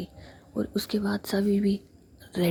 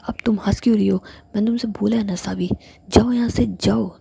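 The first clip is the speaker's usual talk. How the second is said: louder, harsh whisper pushing her out; a fierce whispered telling-off; angry whisper; 8 dB louder than usual. Acted. Ilias ordering laughing Savi out of her room, loud angry whisper. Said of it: "तुम कितना गुस्सा करती हो".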